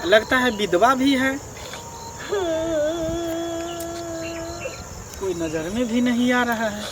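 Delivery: hushed aside. Acted. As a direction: think aloud under your breath. Policeman's aside on spotting her.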